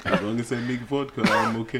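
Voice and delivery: hint of a Russian accent, happy vodka maker; lightly played Russian vodka maker. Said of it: "That's supposed to be my Russian accent".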